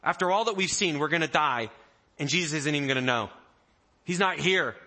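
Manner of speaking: loud, high, fast panic; panicked disciples. Retold or imitated. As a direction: voice the scared disciples yelling over the storm. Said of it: "They are freaking".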